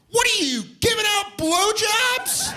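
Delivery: put-on high-pitched kid's scream across a party; big squealed shout. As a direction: holler it out gleefully, stretching the words. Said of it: "just screamed out".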